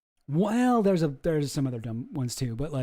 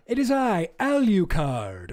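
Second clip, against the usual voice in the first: mock Dracula; 2 semitones higher, 3 dB louder, slower than usual. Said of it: "Dracula will be like".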